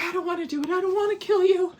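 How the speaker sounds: high-pitched imitation of a reluctant man; sweet timid British guy. Sweet British guy refusing her request, timid. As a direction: plead lightly in a small high voice. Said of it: "this sweet little quiet British guy".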